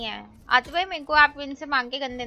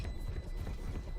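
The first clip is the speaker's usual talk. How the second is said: soft breathless witch cackle; 12 dB quieter than usual. Real, not acted. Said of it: "You got pure चुड़ैल की हंसी".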